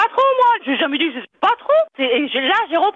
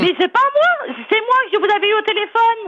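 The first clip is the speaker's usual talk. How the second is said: higher-pitched, insistent correction; exasperated protest; 3 semitones higher than usual. Real, not acted. Employee to a prank caller who mistakes her, exasperated. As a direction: protest your identity, voice lifting in real frustration.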